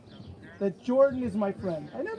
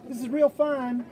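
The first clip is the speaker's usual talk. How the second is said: southern drawl; 3 semitones higher than usual. Retold or imitated. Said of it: "I still had my southern drawl".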